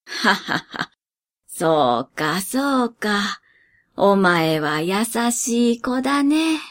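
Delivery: put-on soft, slow amused old master; soft chuckling master. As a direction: laugh it off gently and kindly. Master laughs kindly.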